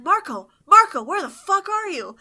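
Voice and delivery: high-pitched mock call for a friend; retold calling out. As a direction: call out high, imitating someone searching.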